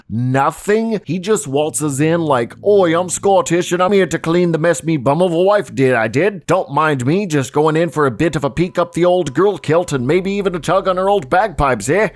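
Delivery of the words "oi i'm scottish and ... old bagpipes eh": hammed-up mock Scottish accent, a bit louder; over-the-top fake Scottish brogue; bad Scottish accent. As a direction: janitor in a cheesy Scottish accent. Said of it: "I don't have a really good Scottish accent".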